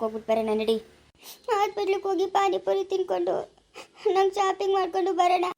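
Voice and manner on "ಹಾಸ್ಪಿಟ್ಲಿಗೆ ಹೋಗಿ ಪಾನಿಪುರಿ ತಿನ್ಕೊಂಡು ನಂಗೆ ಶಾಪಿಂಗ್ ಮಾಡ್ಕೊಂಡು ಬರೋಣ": eager wish. Acted. Wife eagerly lists treats.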